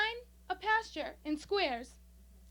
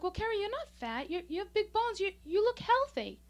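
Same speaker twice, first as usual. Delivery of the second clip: imitated grandma; 6 semitones higher, 3 dB louder than usual. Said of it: "My grandma's like".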